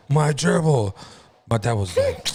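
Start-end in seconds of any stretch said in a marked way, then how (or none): 0.1-0.9 higher-pitched imitation of a tearful kid; light mock wail to a parent; mock crying. Boy showing dad his dead gerbil, mock crying. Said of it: "walked to my dad crying".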